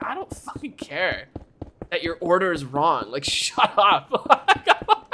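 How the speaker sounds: mock angry snap at a customer, ending in a laugh; retold anger. To a customer upset over a wrong order, mock anger. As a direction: act out losing patience, half laughing. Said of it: "The anger aura".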